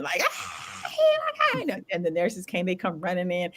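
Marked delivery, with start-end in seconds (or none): 0.2-1.8 high-pitched mock scream, not at full volume; retold screaming fit at a contained volume; stupid screaming. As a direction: imitate a silly, high scream. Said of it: "stupid screaming".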